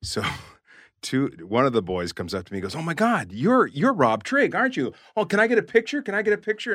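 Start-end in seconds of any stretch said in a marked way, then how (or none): 2.8-6.7 put-on high, loud, gushing teen fan; starstruck fan. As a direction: gush like a kid meeting a celebrity. Starstruck teen fan asks picture.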